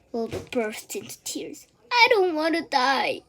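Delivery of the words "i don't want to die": high, louder tearful moan. A narrator's reading. Wilbur bursting into tears, moaning. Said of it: "he moaned".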